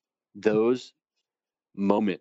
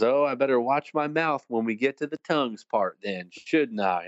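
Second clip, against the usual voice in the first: light Texas twang, starting higher; 4 semitones higher than usual. Retold or imitated. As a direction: imitate a Texan professor lightly. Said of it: "in that Texas twang".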